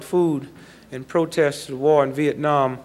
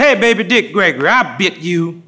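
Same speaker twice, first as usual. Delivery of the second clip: louder, teasing jab at the cop; cocky taunt; 4 dB louder than usual. Retold or imitated. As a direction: needle him, playful and bold.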